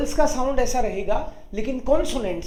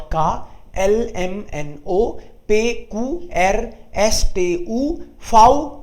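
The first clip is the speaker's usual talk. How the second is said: reciting the alphabet; 3 semitones lower, much slower than usual. Shown as a demonstration. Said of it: "ABCD करी है मैंने".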